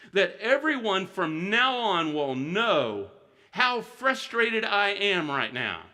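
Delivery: voicing Job's pent-up frustration, drawn out; frustrated Job. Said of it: "he is so frustrated".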